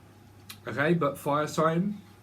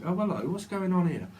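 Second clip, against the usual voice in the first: police officer; 5 semitones higher than usual. Retold or imitated. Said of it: "like the, um, police department".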